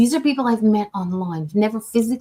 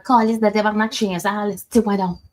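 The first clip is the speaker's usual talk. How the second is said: Quebec French cursing, a little raised; Quebec French swearing; 2 semitones higher than usual. Shown as a demonstration. Showing friends some Quebec swearing, Quebec French. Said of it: "I can swear in French".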